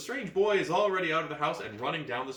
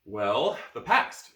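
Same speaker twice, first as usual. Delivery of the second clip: put-on boy's voice; 7 dB louder, much slower than usual. Reader voicing boy in gamebook.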